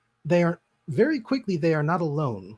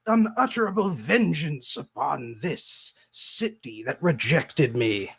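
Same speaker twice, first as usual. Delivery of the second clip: grandiose villain. Acted. Villain speech continues.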